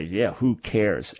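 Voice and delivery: slow, sarcastic shrug of a line. Shown as a demonstration. Host spelling out the sarcastic meaning, dismissive. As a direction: draw it out as if you couldn't be bothered. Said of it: "you're being sarcastic".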